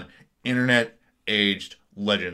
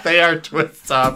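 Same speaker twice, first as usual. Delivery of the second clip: loud, slow, higher laughing realization; 6 semitones higher, 6 dB louder, slower than usual. Real, not acted. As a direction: laugh hard through the words. Laughing at discovering the twist tops.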